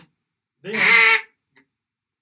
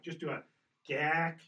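duck call demo. Shown as a demonstration. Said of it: "let's extend just your quack".

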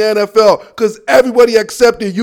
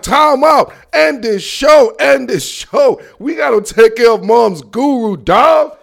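mock urgent; 3 semitones higher, slower than usual. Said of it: "I would have been like".

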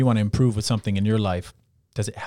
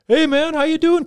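much higher, louder cheerful call from a passing car; cheery teammate; 7 dB louder than usual. Retold or imitated. Teammate calls out a cheerful hello from a passing car. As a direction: sing out a bright hello like a buddy driving by. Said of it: "he's like".

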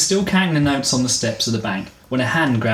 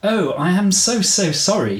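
put-on mildly higher, apologetic English accent; a touch of flustered English politeness; English lady apology; 7 semitones higher than usual. Woman apologising after falling on the steps, light English accent. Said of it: "she cried".

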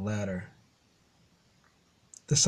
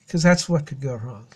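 laughing through pain; 4 dB louder than usual. Real, not acted. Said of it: "it hurts to laugh".

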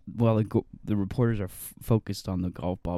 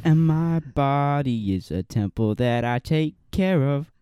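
mock smug; 5 semitones higher than usual.

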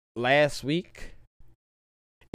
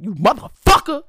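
high, loud, fast trash talk as a dog; jealous dog voice; 10 semitones higher, 7 dB louder than usual. Acted. Smokey the dog mouthing off at a rival dog, high and loud. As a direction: voice the dog Smokey, rattling off insults. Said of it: "started barking at the other dog. Like".

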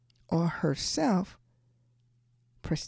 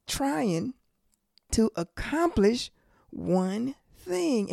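raised-pitch sermon delivery, driving the point; emphatic preaching; 5 semitones higher, 3 dB louder than usual. Real, not acted. Preacher warning the congregation about Satan's world systems, emphatic preaching. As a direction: preach it with rising insistence.

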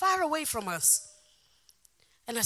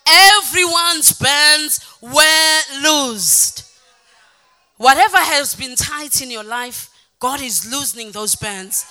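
louder declaring over the band; preaching; 2 semitones higher, 10 dB louder than usual. Acted. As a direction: proclaim the loosing of bonds. Opening declaration over music.

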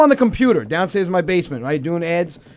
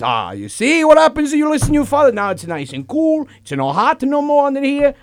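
raised singsong dad voice; imitated gloating father; 5 semitones higher than usual. Voicing father gloating at the table.

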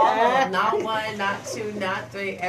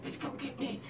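retold whisper; 5 semitones higher, 11 dB quieter than usual. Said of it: "she was whispering".

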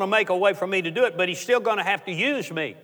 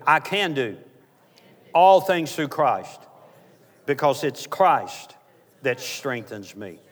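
slow, measured declaration in short phrases; call to repeat; 3 semitones lower, slower than usual. Shown as a demonstration. Preacher has congregation repeat a verse, slow leading declaration. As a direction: lead the congregation phrase by phrase, slowly. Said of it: "Somebody say this with me".

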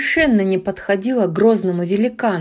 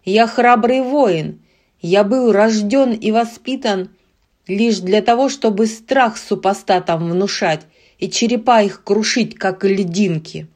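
roaring grunting brute. Acted. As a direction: growl it like a wild beast. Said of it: "Диким зверем прорычал великан".

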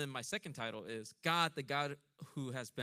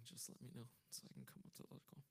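whispered aside; 2 semitones lower, 15 dB quieter, much faster than usual. Pretend. Joking aside to the Lord.

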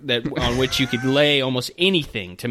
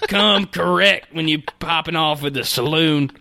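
cowboy voice; 4 semitones higher than usual. Acted. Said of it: "in this cowboy voice".

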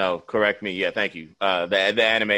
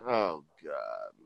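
1 groan; 9 semitones lower, 10 dB quieter than usual. Retold or imitated. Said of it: "And I'm like".

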